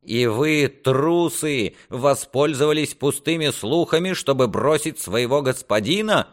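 high-pitched scornful reproach; indignant. A narrator's reading. Lord accuses his men of deserting him, indignant. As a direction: berate them with open indignation. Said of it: "возмутился Реморни".

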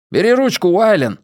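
high, pressing call; urgent shout. A narrator's reading. Jesper hands Wylan the drill handle, urgent shout. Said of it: "крикнул Джеспер".

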